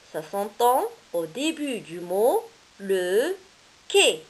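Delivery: "quai" hit loud at the end; slow lead-in, then punch "quai"; stress on quai. Shown as a demonstration. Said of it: "models, "quai" punched".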